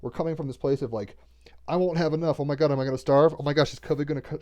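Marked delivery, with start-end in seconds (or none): 1.7-4.4 louder, slightly raised fretting voice; mock panic. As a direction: imitate someone mildly panicking about money. Mimics scarcity panic.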